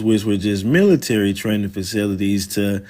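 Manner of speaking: ordinary talk, nothing marked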